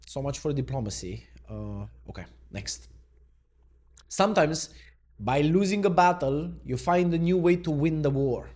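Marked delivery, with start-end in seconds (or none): 4.1-8.5 declaimed quote. Acted. Reading a Trump quote aloud.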